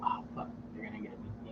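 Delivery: breathy whispered curse; whispered panic. Retold or imitated. Kid whispering a curse after getting caught.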